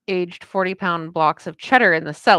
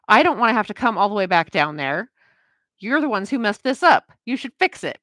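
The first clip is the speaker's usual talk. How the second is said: higher and louder, entitled complaint; retold higher, louder customer rant; imitating an indignant customer; 4 semitones higher, 4 dB louder than usual. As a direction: mimic the customer's huffy demand. Ranting customer on the phone.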